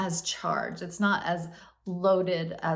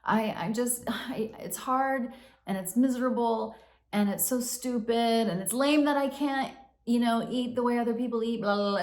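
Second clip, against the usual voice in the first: a lightly whiny, higher self-pity voice; whiny poor me; 4 semitones higher than usual. Retold or imitated. Speaker acting out her poor-me inner voice, lightly whiny. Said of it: "in the poor me land of".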